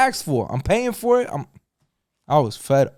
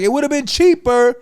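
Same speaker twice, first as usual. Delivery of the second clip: higher, exasperated complaint; exasperated rant; 9 semitones higher, 4 dB louder than usual. Retold or imitated. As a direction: argue the math, fed up. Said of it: "I was like".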